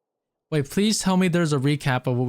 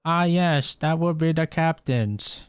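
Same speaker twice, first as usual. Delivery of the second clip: put-on slightly raised, slower girly voice; attempted girl voice; 3 semitones higher, slower than usual. Streamer reads Jean's dialogue aloud, attempted girl voice. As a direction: have a go at a girl's voice. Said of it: "I can't do a fucking girl voice".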